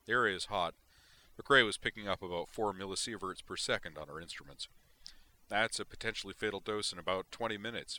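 a hint of a soldier giving a firm field report; Marine sergeant reporting.

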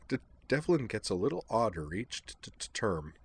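soft, halting stammer on first sounds; a gentle nervous stammer; stammering girl. Acted. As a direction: stumble shyly over each start. Kate's stammering dialogue.

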